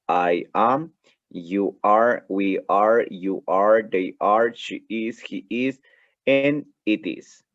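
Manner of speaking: "you are" and "they are" given a separate stressed "are" with a rise; full forms modelled. Shown as a demonstration. Teacher models forms without contraction for class. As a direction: say "I am" and "it is" as two full words, the last slowly. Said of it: "Esa es la manera sin contracción".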